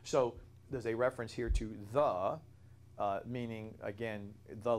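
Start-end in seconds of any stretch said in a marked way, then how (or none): 1.9-2.4 "the" punched loud as the definite article; stress on the. Shown as a demonstration. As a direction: hit the word "the" hard. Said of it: "an emphatic emphasis".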